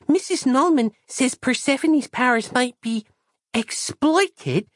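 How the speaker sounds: put-on high, childlike, earnest voice; a naive small girl explaining; high child's voice, trusting and matter-of-fact; innocent little girl. Christabel's voice held.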